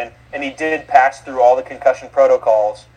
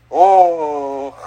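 retold reaction. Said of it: "So I'm like".

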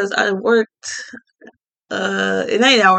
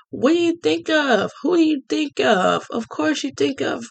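higher, teasing quiz voice; rhetorical hype; 8 semitones higher than usual. Acted. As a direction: tease the audience with the question. Rhetorical build-up.

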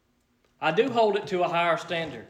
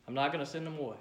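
soft and quiet; 3 semitones lower, 10 dB quieter, much faster than usual. Retold or imitated. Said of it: "he said".

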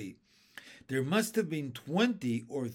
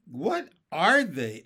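worried; 2 semitones higher, 7 dB louder, slower than usual. A narrator's reading. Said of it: "getting worried".

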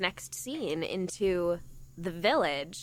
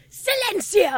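high, loud theatrical command; dramatic command; 11 semitones higher, 6 dB louder than usual. Retold or imitated. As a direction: bark it like a villain on stage. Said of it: "he looks at them and goes".

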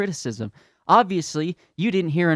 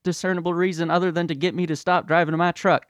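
put-on higher, louder, childish ranting denier; mock denier tantrum; 6 semitones higher, 5 dB louder than usual. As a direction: plug your ears and yell like a spoiled kid. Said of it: "they're like".

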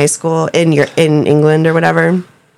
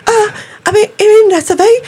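put-on Oscar's reluctant accent. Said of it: "And Oscar's like".

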